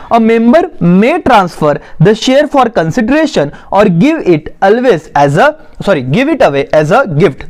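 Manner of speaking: slow, measured reading for note-takers; dictation reading. Acted. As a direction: read out the definition slowly, phrase by phrase. Reads notes aloud for dictation. (धीरे-धीरे notes लिखवाते हुए पढ़ना)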